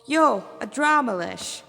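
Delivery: loud, slow hail across the field; calling out. Acted. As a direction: call out boldly to the demon. Manabu calls out to demon.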